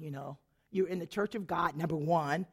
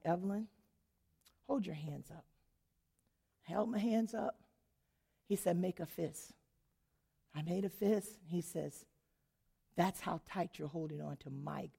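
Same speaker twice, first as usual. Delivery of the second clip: softer, lower, tender instruction; gentle voice of God; 4 semitones lower, 4 dB quieter than usual. Retold or imitated. God guiding Evelyn to open her hands, gently. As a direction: speak like a patient loving father.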